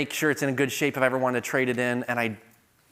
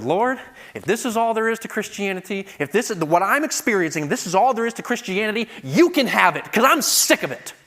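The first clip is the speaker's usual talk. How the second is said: rising, louder exasperated cry at God; fed up, snapping at the Lord, building higher; frustrated outburst; 8 semitones higher, 6 dB louder than usual. Retold or imitated. Evangelist retelling his angry outburst to the Lord, higher and louder. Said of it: "I'd never talked to the Lord in that tone before".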